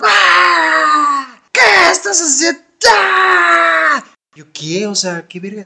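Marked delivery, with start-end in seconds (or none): 0.0-4.0 put-on crazed, desperate shriek, very high and slow. Retelling his aunt opening the door on him and his girlfriend, imitating frantic screaming. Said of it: "empieza a gritar, pero como loca".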